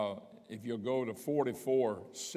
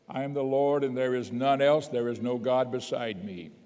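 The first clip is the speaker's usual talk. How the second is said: louder, ringing pulpit reading; proclaiming scripture; 5 dB louder than usual. Real, not acted. Preacher declaring the verse to his congregation, loud. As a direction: declare it to the whole room.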